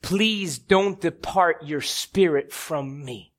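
slow, restrained pleading; imitated plea. David cries out to God in a psalm, understated slow plea. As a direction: plead slowly, without raising the voice. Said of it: "he cries out to God".

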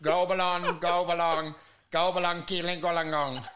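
mock broken-phone babble; garbled gibberish voice. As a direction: babble like a cutting-out call. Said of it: "you're like".

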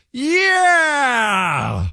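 a sudden high shouted yeah; retold yell. Host retelling his concert blunder, yelling yeah. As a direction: blurt it out like a crowd heckler. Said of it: "I yelled".

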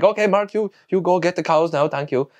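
high-pitched instruction, easing down at the end; polite Filipino farmer. Retold or imitated. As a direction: imitate an over-polite farmer giving orders. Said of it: "He's like".

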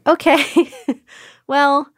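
high-pitched, uncertain nurse's reassurance; high, halting mock reassurance; imitated nurse. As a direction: mimic a nurse awkwardly glossing over it.

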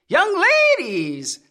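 lightly voiced cracked old man calling; shrill cracked old man. A narrator's reading. Old man searching the dark room, cracked call. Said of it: "called in a shrill, cracked voice".

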